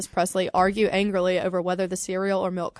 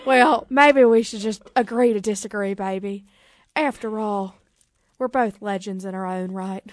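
lightly voiced rock-and-roll king; a hint of an amateur Southern star impression; a singer. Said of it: "what does a singer sound like?".

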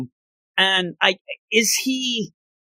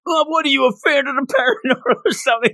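mocking taunt; 9 semitones higher, faster than usual. Soda mocking the photographer.

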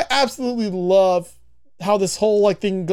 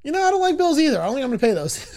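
voicing Peter; 6 semitones higher, faster than usual. Peter's reply, voiced high.

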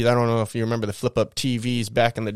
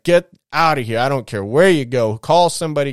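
angry dad, retold; 3 semitones higher, 4 dB louder than usual. Dad ordering his daughter out, retold anger. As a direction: lightly act out a father's stern dismissal.

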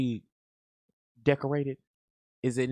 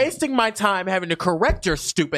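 higher, energetic mock tirade; scornful rant; 4 semitones higher than usual. Host showing how they scold the ignorant, scornful rant. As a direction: lay into them with exasperated scorn.

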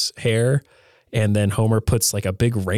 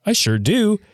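much higher, eager Homer; 11 semitones higher than usual. Retold or imitated. Homer answering Gerald Ford, high and eager. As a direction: squeak it out like an excited Homer. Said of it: "And Homer's like".

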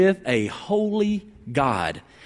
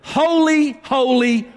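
raised, higher call of the seraphim; 5 semitones higher, slower than usual. Acted. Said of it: "angelic creatures were calling out to each other".

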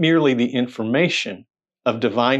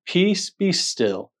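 calm command; 4 semitones higher, much slower than usual. Acted. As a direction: hush the storm slowly. Jesus calming the storm.

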